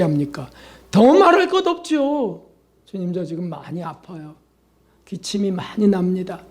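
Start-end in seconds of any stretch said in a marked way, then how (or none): 2.9-6.4 softer, then a whispered weak plea to the Lord; weak sick prayer. Acted. A sick believer telling the Lord of the pain, weak and whispered. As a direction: pray like someone too sick to raise the voice.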